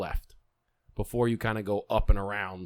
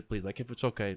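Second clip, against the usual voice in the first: softly asking nicely; polite request; 8 dB quieter than usual. Retold or imitated. Diner asking the host for a table, politely. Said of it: "I just asked him very nice".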